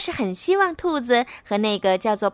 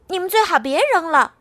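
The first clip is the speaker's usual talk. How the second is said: shout; 6 semitones higher, 4 dB louder than usual. Acted. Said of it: "冲外面喊道".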